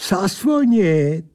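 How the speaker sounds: slow, drawn-out smug answer; lightly voiced mocking angel; odd angel voice. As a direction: stretch it out smugly. Angel character speaks.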